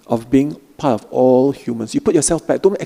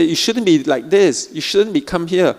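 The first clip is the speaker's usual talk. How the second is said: judging self-talk; 4 semitones higher than usual. Retold or imitated. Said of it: "You say".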